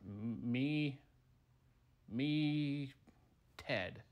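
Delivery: halting, dim-witted creature voice; dumb meatball. Acted. Dumb meatball struggles to give his name, dim-witted. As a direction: grope for each word, slow on the uptake. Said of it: "we got a dumb one here".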